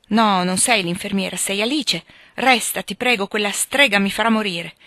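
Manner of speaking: a touch of feverish panic; anxious plea. Acted. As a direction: beg them to stay, delirious. Delirious patient begs her to stay.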